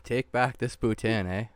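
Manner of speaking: lightly hammed Canadian lilt ending in eh; a hint of a Canadian accent; mock Canadian accent. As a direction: demand the poutine go back, Canadian style. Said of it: "Part of me died in that dialogue".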